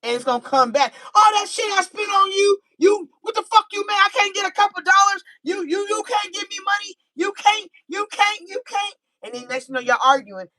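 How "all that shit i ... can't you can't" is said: high, fast complaining rant at partner; mock heated argument. Girlfriend arguing with partner about money, high ranting. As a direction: whine and accuse over money.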